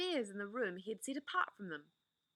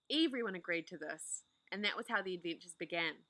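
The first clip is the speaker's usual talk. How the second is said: ordinary delivery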